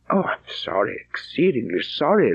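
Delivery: taken aback and touched, held back; surprise and emotion. Acted. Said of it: "in a tone of surprise and emotion".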